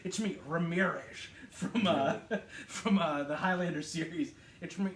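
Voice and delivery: lightly put-on Scottish accent; mock Scottish movie-star introduction, breaking into laughter; Sean Connery. Film fan spoofing Connery as Ramirez, Scottish accent. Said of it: "Scottish. He's like".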